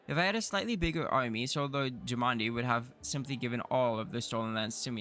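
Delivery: lightly voiced haughty noble; arrogant baron voice. Needling the new baron, a lightly voiced haughty noble. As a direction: sneer down at the upstart.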